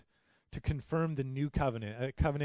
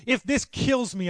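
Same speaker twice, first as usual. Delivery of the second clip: loud and higher, slowed; fervent oath; 11 semitones higher, 10 dB louder, slower than usual. Acted. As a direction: declare it with fire. Loud take of the vow.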